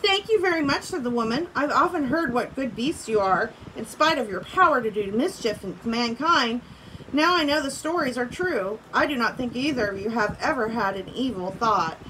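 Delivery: reading a story aloud to the class; steady read-aloud for students; story narration. A narrator's reading. Teacher reading a storybook to her class, read-aloud voice.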